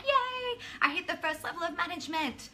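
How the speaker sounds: high-pitched mock celebration; really excited. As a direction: imitate a gleeful newcomer, starting with a soaring cheer. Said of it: "you get really excited".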